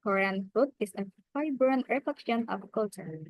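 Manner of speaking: "Korean food is a vibrant reflection of culture" with light unstressed syllables; reduced unstressed syllables. Shown as a demonstration. Teacher showing British accent rhythm, weak syllables reduced. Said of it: "reduce emphasis on under-stressed syllables".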